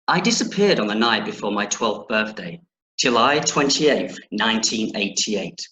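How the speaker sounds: put-on measured, deliberate reading aloud to children; story narration. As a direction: read the opening of an adventure story clearly. Reads the opening aloud to children.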